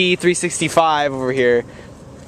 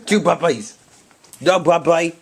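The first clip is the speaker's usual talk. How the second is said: excited; 5 semitones higher, 4 dB louder, slower than usual. Real, not acted. Excited about dogs.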